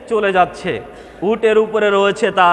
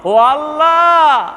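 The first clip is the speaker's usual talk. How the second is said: overjoyed cry, retold; 2 semitones higher than usual. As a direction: call out to God, stretching the words. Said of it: "সে খুশি হয়ে বলছে".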